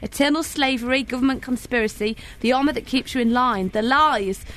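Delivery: measured protest-song recital; lyric recital. Acted.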